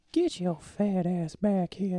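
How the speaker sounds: put-on slow, high creepy old man. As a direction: drag it out like a leering old man. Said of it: "Yeah, that's it".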